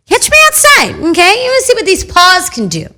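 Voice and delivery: high, loud hammed-up tough talk; playful threat. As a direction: play tough, daring them. Mock threat to friend.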